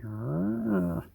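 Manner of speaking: soft drawn-out mock growl; long, soft "arrgh" growl; imitated weird growl. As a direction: imitate a creature growling, quietly. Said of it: "low-pitched growl".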